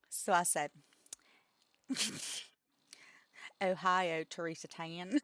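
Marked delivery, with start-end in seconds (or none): 3.6-5.2 southern drawl on Ohio, Teresa Tan; a hint of southern twang on the Japanese; Japanese name in southern accent. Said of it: "with a southern accent".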